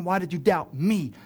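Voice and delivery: "me" leaned on at the end; emphatic final "me", the mistaken reading; stress on "me". Shown as a demonstration. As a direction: quote it with the weight landing on "me". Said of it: "He doesn't mean".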